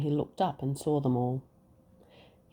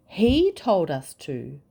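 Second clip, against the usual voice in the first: louder, slow blaming cry; mild cry out; 2 semitones higher, 6 dB louder than usual. Acted. Knights crying out blaming the king. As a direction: point the blame, loud and drawn out. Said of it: "they cried".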